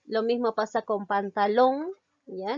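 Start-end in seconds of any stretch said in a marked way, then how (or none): 1.1-1.9 "pantalón" with the last syllable lón weighted and rising; stress on LÓN. Shown as a demonstration. Teacher shows another aguda word, stress on LÓN. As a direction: lean on the final lón in "pantalón". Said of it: "recae en la sílaba long".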